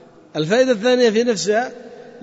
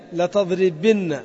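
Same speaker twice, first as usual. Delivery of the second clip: drawn-out لتضربن, ending on a fall; slow model pronunciation; 2 semitones lower, much slower than usual. Shown as a demonstration. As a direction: say لتضربن slowly, letting the doubled nun ring. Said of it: "تقول إيش؟". (نطق بطيء لكلمة لتضربن مع تشديد النون)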